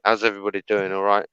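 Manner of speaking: casual mock Welsh accent demonstration; put-on Welsh-style accent. Shown as a demonstration. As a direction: chat away in an imitated Welsh accent. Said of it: "put on this accent".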